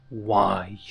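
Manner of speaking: a touch of demonic depth on one word; deep growled question. A narrator's reading. Izuku confronts Nizu with his question, deep growl. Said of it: "Izuku growled the question. His voice got deeper, almost demonic".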